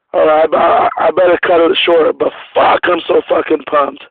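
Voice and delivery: raspy worn-out voice; hoarse from yelling. Real, not acted. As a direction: voice shot from yelling. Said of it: "my voice is kinda shot".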